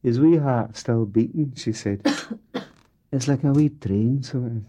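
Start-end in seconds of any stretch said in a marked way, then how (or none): 0.0-1.5 lightly voiced young girl, raised pitch; a wee lass marvelling over the bird; young Jessica. 3.1-4.6 lightly voiced young girl, raised pitch; a wee lass marvelling over the bird; young Jessica. Daughter Jessica voiced again.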